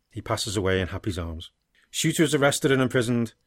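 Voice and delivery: earnest, measured reading of a dark tale; story narration. A narrator's reading. Co-host reads his dark sequel aloud, steady story narration. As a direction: read the drama out in steady sentences.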